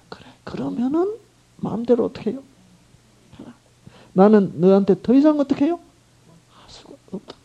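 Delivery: high, fading, heartsick letting go; sorrowful resignation to a wayward child; grieving parent. Acted. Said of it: "얼마나 마음 아픕니까".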